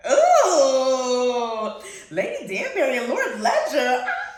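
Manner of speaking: high giggly squeal, easing down at the end; scandalized squealing. Real, not acted. Fan can't take the naughty hookup scene, scandalized squealing.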